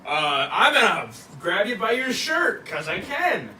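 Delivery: lightly hammed-up bully; mock bullying threat. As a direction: threaten loudly, playing the bully. Acted bullying threat in retelling.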